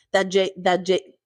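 stumbling over the first sound; stuttering on the word. Real, not acted. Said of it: "I'm stuttering so hard".

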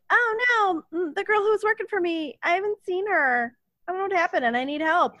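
high-pitched, hammed-up helpless plea; mock distress. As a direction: play a flustered boss begging for help. Acting out Isabel's worried plea for help.

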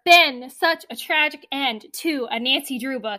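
real outrage at a sad ending; anguished shout. Real, not acted.

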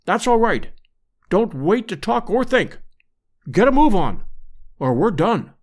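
a hint of a brisk urgent adventurer; urgent hunter. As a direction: press him to hurry, lightly voiced. Roxton urging escape.

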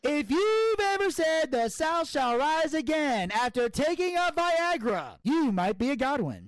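very high, slow, loud put-on Southern voice; hammed-up hick voice. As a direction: stretch it out like a hick comic. Redneck joke in put-on voice.

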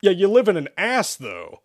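high, loud objection dropping away; deflating reminder. A narrator's reading. Joe reminding the demon where it lives, deflating. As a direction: puncture the boast, trailing down. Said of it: "Joe reminded".

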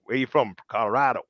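lightly put-on American accent; Brad from Colorado. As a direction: play a casual American, understated. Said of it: "I would have been Brad from Colorado".

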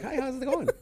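high-pitched put-on friendliness; fake friendly greeting. Homebody showing how to be fake in public, fake friendly greeting. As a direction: chirp it with fake politeness. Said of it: "go out and be fake".

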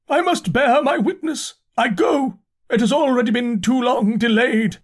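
high, fervent proclamation; loud declaiming. A narrator's reading. Mad curate leaving to bear his witness, loud high declaiming. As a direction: call it out like a crazed prophet. Curate still shouting, heads for door.

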